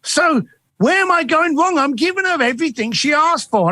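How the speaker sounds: high, fretful rush of worry. Retold or imitated. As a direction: play the flustered client, voice climbing high. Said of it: "she was very flustered".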